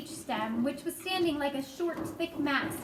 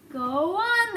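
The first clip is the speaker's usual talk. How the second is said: louder, higher, urgent plea; frantic cry; 6 semitones higher, 5 dB louder than usual. A narrator's reading. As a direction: beg him to hurry on. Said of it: "they cried frantically".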